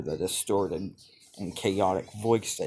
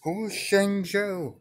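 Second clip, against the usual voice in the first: very high, loud and slow shriek; a piercing, drawn-out scream; 12 semitones higher, 5 dB louder, slower than usual. Acted. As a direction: stretch it into a desperate scream. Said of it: "Naruto would be screaming".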